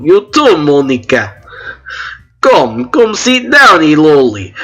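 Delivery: put-on high, bubbly Russian-accented girl; chirpy Sayori in a Russian accent. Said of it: "I'm just listening to your Russian accent".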